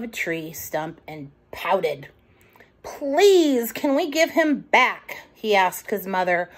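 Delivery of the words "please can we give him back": put-on small raised child voice, pleading; higher childlike plea; little raccoon pleading. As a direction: plead like a worried little boy.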